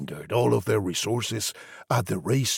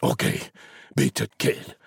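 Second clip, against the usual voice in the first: murmured; 2 semitones lower than usual. A narrator's reading. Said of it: "He murmured".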